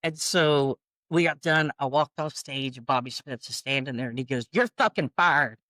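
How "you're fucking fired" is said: retold boss's curt dismissal, a bit higher; lightly acted angry boss; mild angry firing. Boss fires the singer as she comes offstage, mildly angry.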